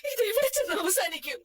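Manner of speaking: tearful, hopeless question; crying despair. Acted. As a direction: cry out where it will end. Mother despairs over son. (കരച്ചിലോടെ നിരാശ)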